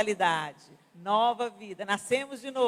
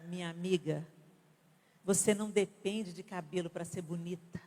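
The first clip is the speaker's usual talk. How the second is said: intentionally kind; 4 semitones lower than usual. Shown as a demonstration. Preacher models gentle words to a sad friend. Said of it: "intencionalmente gentil".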